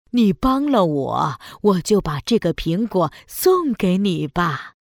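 put-on sweet old granny voice. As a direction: coax her like a kind granny. Witch as granny offers apple. (哄骗人的老奶奶声音)

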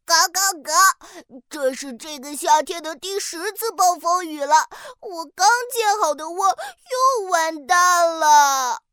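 upset little duck, quacking; grumbling cartoon duckling.

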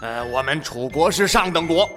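speaking with a twisted mouth; grudging words from a crooked mouth; out of mouth corner. Acted. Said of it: "他只好歪着嘴说".

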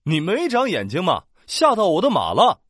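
low, menacing carriage man; fierce scolding. Acted. Man in carriage scolds girl who scared his horse, fiercely. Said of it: "恶狠狠地说".

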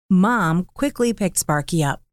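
plain reading voice

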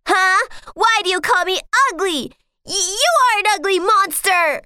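put-on high, fast, offended child voice; indignant little prince. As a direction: snap back at the princess, hurt and angry. Angry toad prince retorts.

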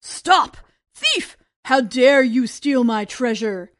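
loud, booming giant roar; giant alien. Acted. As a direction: thunder at the thief. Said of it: "thundered the giant".

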